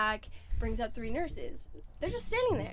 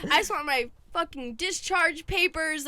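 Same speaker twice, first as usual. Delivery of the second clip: put-on old man swearing; 5 semitones higher, 5 dB louder than usual. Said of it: "and he's just swearing".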